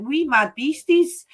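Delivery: slow, rolled Scottish "Wee Mad Beasties"; Scottish brogue on "Wee Mad Beasties", drawn out; Scottish accent. Shown as a demonstration. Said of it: "I have to say it in a Scottish accent".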